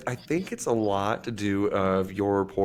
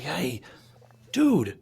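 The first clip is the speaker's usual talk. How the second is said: Australian coworker; 9 semitones higher than usual. Retold or imitated. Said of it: "it sounded like you had an Australian friend".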